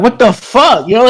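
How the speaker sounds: high-pitched baffled protest; retold indignant outcry. Boy just punched by classmate, retold indignant shock. Retelling reaction to being punched.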